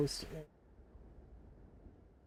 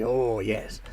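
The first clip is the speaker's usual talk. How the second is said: gravelly merchant voice. Acted. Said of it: "maybe a little bit more gravelly".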